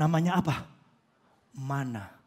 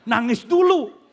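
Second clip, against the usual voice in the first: slow, louder, higher drawn-out echo; mock-admiring echo; 4 semitones higher, 9 dB louder, slower than usual. Preacher echoing the weeping driver, slow, loud mock awe. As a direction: savour the words in mock awe. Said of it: "Wih, keren bener".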